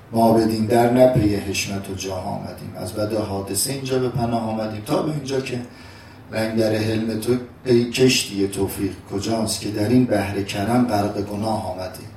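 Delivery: steady, measured verse reading; poem recitation. Acted. Preacher reciting Hafez to listeners, measured. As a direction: recite the couplets evenly.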